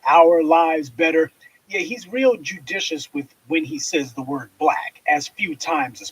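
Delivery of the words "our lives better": mocking kumbaya quote. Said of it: "that same old kumbaya".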